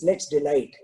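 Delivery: a lightly voiced, serene minister; calm. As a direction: say it evenly, untroubled by the scolding. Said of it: "The minister still is calm".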